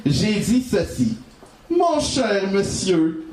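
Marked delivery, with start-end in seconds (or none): 1.7-3.3 slow, ceremonious greeting; politely drawn-out salutation; formal address. Acted. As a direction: address a gentleman, drawing it out.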